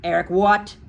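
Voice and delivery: loud, incredulous headmistress; shouted. A narrator's reading. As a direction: shout it at the boy in disbelief. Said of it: "the Trunchbull shouted".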